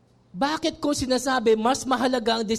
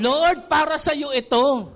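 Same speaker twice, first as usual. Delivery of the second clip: slow sincere offering; 4 semitones higher, 4 dB louder, slower than usual. Retold or imitated. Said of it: "Hindi yung".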